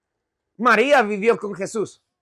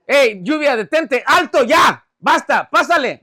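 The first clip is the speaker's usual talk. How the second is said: loud, playful order to the rain; acted emphatic commanding; Jesús, mild mock command; 3 semitones higher, 5 dB louder than usual. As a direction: halt the rain with authority. Jesus ordering rain to stop.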